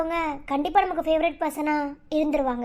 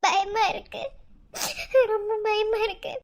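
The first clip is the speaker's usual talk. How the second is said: frightened words broken by sobs; scared and tearful, pausing to catch breath; crying in fear. Acted. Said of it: "அழாதீங்க". (பயத்தில் விம்மி அழுது)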